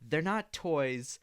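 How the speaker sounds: high, slow mock scolding; prim instructor voice, drawn out; nagging mock lecture. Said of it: "She goes".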